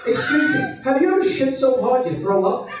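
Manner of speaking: high, sweet, mock-polite start; mock polite opener. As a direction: chat her up with fake charm. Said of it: "I like these icebreakers".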